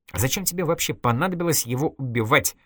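exclaiming. Acted. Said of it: "воскликнула Митрофанова".

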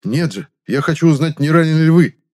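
резкий громкий окрик; рявкнуть в ответ, выше и громче; рык. Acted. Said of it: "рыкнул я в ответ". (громко рыкнуть)

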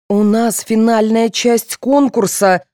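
high, slow, emphatic protest; indignant. A narrator's reading. Contestant protesting at being detained, indignant. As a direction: draw out the outrage. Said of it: "возмутилась Марина".

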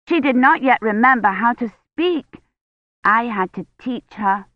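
lightly voiced high little girl; Agnes, proud child. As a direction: tell on her like an eager child.

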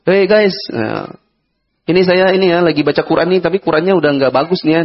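hint of a cheerful influencer voice; mock vlogger. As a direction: play a chatty online host, lightly done. Mocking a vlogging president.

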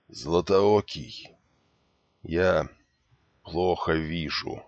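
weak and dying. Acted. Dying man speaks weakly.

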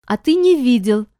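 hurt, snapping back; offended. A narrator's reading. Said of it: "обиделась Бренда".

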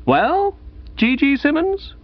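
high-pitched, frosty questioning; cold and distant. A narrator's reading. Gussie greets a prize winner he dislikes, cold and distant. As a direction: address him coldly, pitched well up. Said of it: "He was cold and distant".

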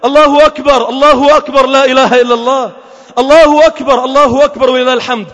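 bold, unashamed takbir. Retold or imitated. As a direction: call it out briskly and firmly. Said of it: "والله العظيم رفعت صوتي".

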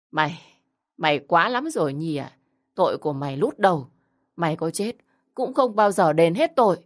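a hint of a bitter old woman cursing; continued scolding. Grandmother accusing Nhi of killing the baby, scolding. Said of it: "tiếp tục mắng chửi".

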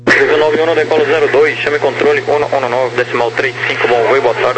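crackly radio transmission voice; clipped controller over the radio; air traffic control radio. Real, not acted. Tower clearance read over radio.

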